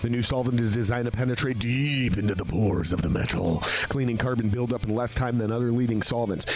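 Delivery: upbeat sponsor read, mostly his own voice. Acted. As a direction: sell the product like a host-read ad. Reading sponsor ad copy.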